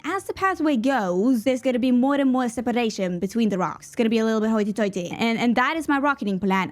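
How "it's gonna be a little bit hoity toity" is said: put-on quick hoity-toity posh accent. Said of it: "What was that accent?".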